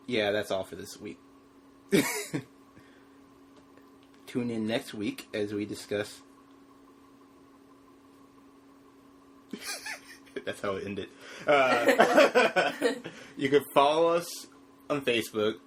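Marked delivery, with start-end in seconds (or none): 4.3-15.5 talking while chewing gum; words around a wad of gum. Real, not acted. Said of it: "You need to stop chewing gum".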